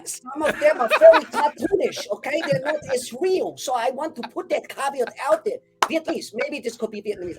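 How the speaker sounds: nervous laughing. Real, not acted. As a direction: laugh the disclaimer off. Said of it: "nervous disclaimer".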